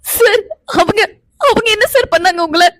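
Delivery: halting, tearful question; crying and confused. Acted. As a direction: ask through sobs, stumbling on the first words. Tearful wife questions angry husband.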